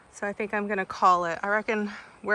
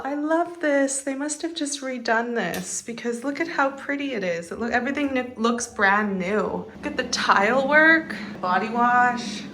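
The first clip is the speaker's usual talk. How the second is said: usual speaking voice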